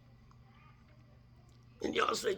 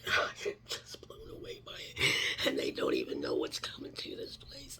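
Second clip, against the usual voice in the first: crying whisper. Real, not acted. Crying whisper after laugh.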